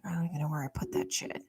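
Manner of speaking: hushed, quiet mutter to herself; whispered aside. Retold or imitated. Searching for the banner supplies, whispering. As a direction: whisper it like a secret panic.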